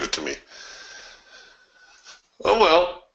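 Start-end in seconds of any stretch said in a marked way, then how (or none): 2.4-3.0 resigned oh well. Real, not acted. Resigned exclamation.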